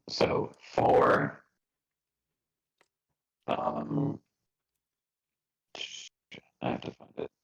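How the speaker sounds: glitchy robotic audio; words breaking up on the call; call dropping out. Real, not acted. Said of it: "you're glitching hard".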